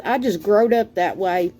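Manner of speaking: broad Southern growed up; Southern dialect. Shown as a demonstration. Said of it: "as we say down south".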